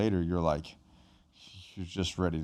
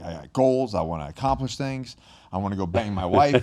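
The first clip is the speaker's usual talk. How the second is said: eager, pumped-up quote, a touch raised; fired up; 3 dB louder than usual. Retold or imitated. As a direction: imitate a guy newly fired up about life. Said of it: "all of a sudden they're fired up".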